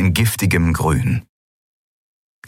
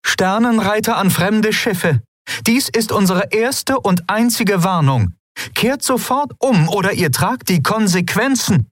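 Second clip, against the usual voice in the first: stern warning; 13 semitones higher than usual. Acted. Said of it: "blickte streng".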